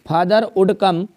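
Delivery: each word drawn out slowly for copying; slow dictation. Shown as a demonstration. Teacher dictating an invitation letter to the class, very slow. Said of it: "dictating letter slowly".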